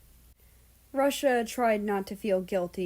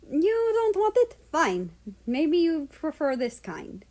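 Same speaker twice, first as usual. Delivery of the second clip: sarcastic; 7 semitones higher, 3 dB louder than usual. Acted. Annoyed at picky cat.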